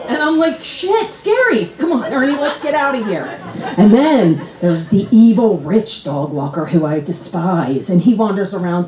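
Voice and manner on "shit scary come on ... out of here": high, hushed mock panic; small, high spooked voice; mock scared. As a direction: softly urge the dog away in pretend fright. Acts fleeing the creepy lady.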